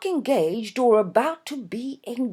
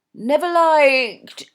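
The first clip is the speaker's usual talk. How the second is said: bewildered; 7 semitones higher, 9 dB louder, much slower than usual. A narrator's reading.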